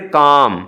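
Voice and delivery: काम with silent l and long आ; long vowel. Shown as a demonstration. Teacher showing the silent l word, काम drawn out. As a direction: stretch the आ in काम. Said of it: "इस आवाज़ को हम लंबा करते हैं".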